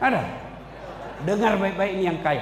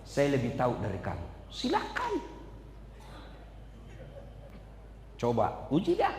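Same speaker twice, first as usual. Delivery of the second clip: quiet voice of God; 9 semitones lower, 9 dB quieter than usual. Acted. God's calm reply.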